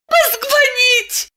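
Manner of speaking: very high, slow, squealed cry through pain; a desperate high shriek; shrill squeal. Acted. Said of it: "взвизгнула Диана".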